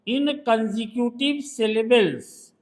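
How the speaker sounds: "consecutive syllables" stretched out syllable by syllable; slow dictation. Shown as a demonstration. Teacher dictating the rule to a student, very slow. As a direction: dictate it word by word. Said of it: "reads the rule slowly aloud".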